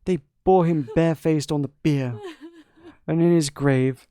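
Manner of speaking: lightly voiced grieving queen, whispering at first; a mother mourning her son in a hushed voice; understated queen's lament.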